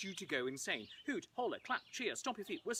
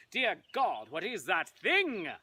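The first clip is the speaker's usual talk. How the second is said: slow, slightly louder cry; mock horrified yell; 7 dB louder, slower than usual. Shown as a demonstration. Audience cue of a mock scared yell, slow. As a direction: cry out in hammed-up horror. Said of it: "Everyone yells out".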